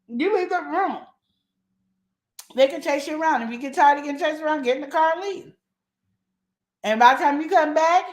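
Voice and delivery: usual speaking voice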